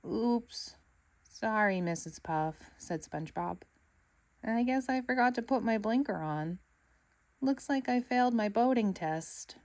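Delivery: light cheerful sponge voice; sheepish but chirpy apology; apologetic cartoon sponge; cheery SpongeBob.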